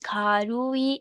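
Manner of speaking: "खारुई" stretched out as खा-रू-ई; drawn-out demonstration. Shown as a demonstration. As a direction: lengthen each syllable of "खारुई". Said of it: "इसको अगर हम बोलें तो बोलेंगे". ("खारुई" को खींचकर, साफ़-साफ़)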